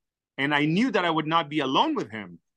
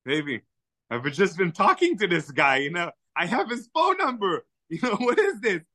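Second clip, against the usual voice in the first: excited whisper to wife; 3 semitones higher than usual. Retold or imitated.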